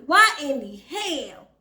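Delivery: slow, drawn-out imitation of a castmate's accent; Tiny's accent. Vlogger echoing the clip she agrees with, lightly imitated accent. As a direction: lightly mimic the accent, stretching the words. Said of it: "I love Tiny's, uh, accent".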